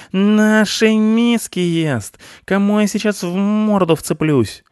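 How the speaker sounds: very high, loud, drawn-out howl; yelling. A narrator's reading. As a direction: scream the threat in outrage. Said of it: "завопил Рыжопиус". (яростный протяжный вопль)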